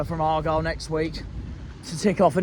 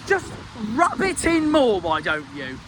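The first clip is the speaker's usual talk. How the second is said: angry jibe; 3 semitones higher than usual. Real, not acted. Fan mocking Cardiff's gloating post, angry jibe. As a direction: throw it back at them, riled. Fan ranting at rival club.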